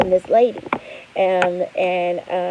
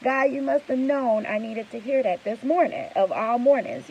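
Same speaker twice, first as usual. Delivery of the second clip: thrilled; 5 semitones higher than usual. Retold or imitated. Reacting to a client's good news, thrilled and squealing. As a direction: let the excitement burst out. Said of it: "I was like".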